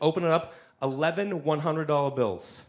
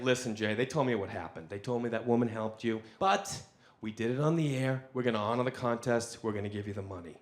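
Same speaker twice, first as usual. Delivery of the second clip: lightly voiced radio host; 6 semitones lower, 6 dB quieter than usual. Maddie voiced on the phone.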